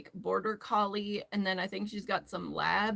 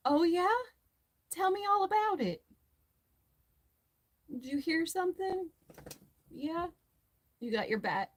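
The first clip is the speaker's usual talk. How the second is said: high, eager dog voice, faster in the middle; voicing the dog; 8 semitones higher than usual. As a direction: play the nosy excited dog asking questions. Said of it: "but she is like".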